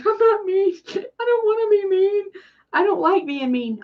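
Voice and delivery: high, half-crying plea; mock tearful protest. Retelling how the comment nearly made her cry, high tearful whimper. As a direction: whimper it like you might cry. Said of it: "I about cried".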